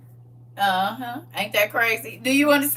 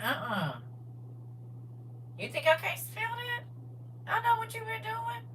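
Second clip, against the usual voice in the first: lightly voiced accusing man, higher; a mock sniffing accusation, pitched up; suspicious man; 8 semitones higher, 13 dB quieter than usual. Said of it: "He be like".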